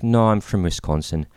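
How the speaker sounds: light mock Irish accent; imitated Irish accent. Guy admitting he's from Wisconsin, light Irish accent. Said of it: "like, an Irish accent".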